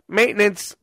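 lightly voiced worker at the door; maintenance guy. Mimicking the maintenance guy at the door, light put-on voice. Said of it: "maintenance is like".

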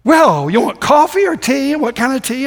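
high, loud, slow imitation Scottish accent; little Scottish accent. Scottish church member offering coffee or tea, imitated Scottish accent. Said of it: "has a little Scottish accent".

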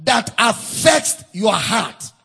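slow, weighty pulpit delivery; deliberate preaching with punched words; emphatic preaching. Acted. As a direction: drive each phrase home, drawing out the key words. Preaches emphatically on heartfelt petition.

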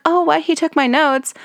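put-on high surprised girly voice; Terry impression. Imitating Terry gasping at her friend, high and surprised. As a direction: squeak in mock surprise. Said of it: "And she's like".

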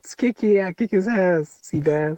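loud high hype-up shouts; hype man shouting. Pretend. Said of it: "You gotta hype me up".

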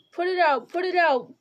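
high, loud frantic plea; desperate begging. A narrator's reading. Merry, trapped in the willow, begs Frodo in terror. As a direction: beg them to stop, terrified. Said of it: "begged Merry".

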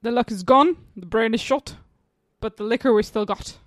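attempted Glaswegian Scottish accent. Player giving a line to guess, Glaswegian accent. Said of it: "Glaswegian? Yes".

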